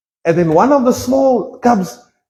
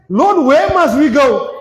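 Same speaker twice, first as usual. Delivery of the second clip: pleading shout; 3 semitones higher than usual. Acted. Peter pleading with Jesus.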